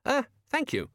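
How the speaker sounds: high, strained, nervous thanks; a scared man squeaks it out; frightened squeak. Acted. Terrified shopkeeper answers Death.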